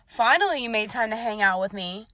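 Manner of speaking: mock his entitled opener; lightly voiced smug guy; a hint of a smug date. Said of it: "the first thing this man said".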